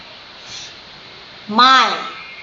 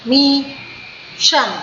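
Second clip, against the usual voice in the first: syllable by syllable; much slower than usual. Shown as a demonstration. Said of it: "it is going three times down".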